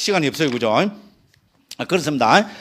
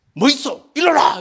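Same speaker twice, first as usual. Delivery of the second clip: King Yama; 6 semitones higher, 4 dB louder than usual. Acted. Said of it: "아마 염라대왕에 가면".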